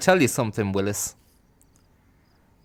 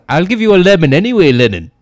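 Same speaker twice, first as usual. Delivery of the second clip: loud, fast pushy yell; crackpot yelling; 4 semitones higher, 10 dB louder, faster than usual. Retold or imitated. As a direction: shove the lemon on him, shouting. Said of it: "he goes".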